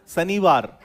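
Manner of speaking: शनिवार said with a plain s, "sanivar"; शनिवार with s not sh; wrong Hindi. Shown as a demonstration. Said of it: "शनिवार नहीं होता, शनिवार होता है ये". (शनिवार गलत, स से)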